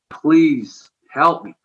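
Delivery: slow, drawn-out plea; pleading. Retold or imitated. Man praying to God on his knees, slow plea. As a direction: beg for help, stretching the words.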